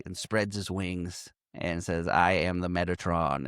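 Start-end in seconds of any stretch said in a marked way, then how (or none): 2.1-3.4 lower, lightly imitated grand proclamation; booming angel voice. Angel revealing himself to a woman, mock booming voice. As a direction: announce it like a mighty angel, half-booming. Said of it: "in a huge booming voice".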